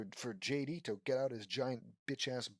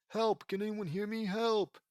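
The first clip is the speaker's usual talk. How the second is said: high, loud cry for help; acted yell for help; 6 semitones higher, 3 dB louder than usual. A narrator's reading. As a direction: call out desperately to be found. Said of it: "yells Zoe".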